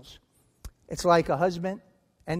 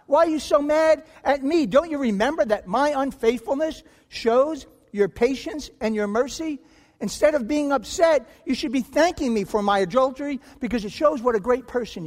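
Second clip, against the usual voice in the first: indignant scream; 6 semitones higher than usual. Acted. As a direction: shriek in outraged self-defence. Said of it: "And the offender screams".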